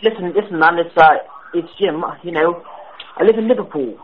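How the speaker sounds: a prank caller faking British; put-on British accent. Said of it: "Sorry if my accent was in and out".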